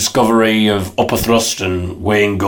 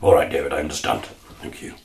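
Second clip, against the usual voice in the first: soft low meek agreement; Ray's meek voice; 5 semitones lower, 5 dB quieter than usual. Acted. Ray giving in to David's threat, soft and meek. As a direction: give in quietly.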